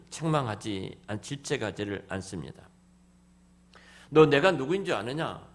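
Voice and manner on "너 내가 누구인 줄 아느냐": loud, high scolding question; a lordly rebuke the Lord never gives; mock stern rebuke. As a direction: bark it like a proud master. Voicing a boastful rebuke.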